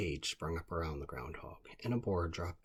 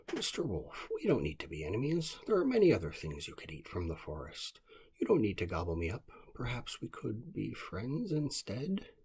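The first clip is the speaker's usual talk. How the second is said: high, louder pleading little groundhog; 5 semitones higher, 3 dB louder than usual. Acted. Groundhog in a cage talks the wolf out of it, high pleading voice. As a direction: coax the wolf, higher and louder.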